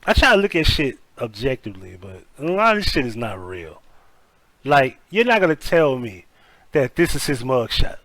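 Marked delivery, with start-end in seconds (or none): none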